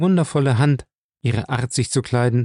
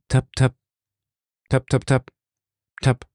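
slow, deliberate spoken knock sounds; 2 semitones higher than usual. A narrator's reading. Someone knocks slowly at the door, deliberate taps. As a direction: tap it out slowly, unmistakable. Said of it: "Langsam, überlegt, unverkennbar".

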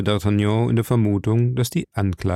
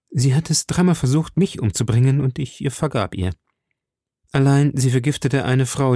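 lightly voiced, slightly raised confession; earnest young musketeer; 3 semitones higher than usual. Musketeer confessing the judgment to the cardinal, earnest. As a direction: give a firm, earnest account.

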